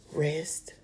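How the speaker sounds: breathy whisper of one word; whispered, still reply; whispered answer. Retold or imitated. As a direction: breathe it out calm. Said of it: "God's answer, whispered".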